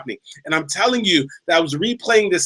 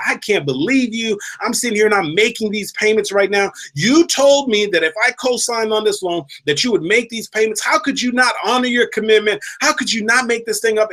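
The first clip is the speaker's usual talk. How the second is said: retold scolding; 6 semitones higher than usual. Telling off the friend who stopped paying, higher angry scolding. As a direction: replay telling her off, voice pitched up. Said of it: "giving her a piece of my mind".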